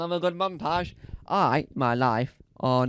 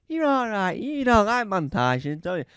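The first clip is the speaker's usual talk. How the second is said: imitating Roman Kemp; 6 semitones higher, 7 dB louder than usual. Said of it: "And Roman Kemp says".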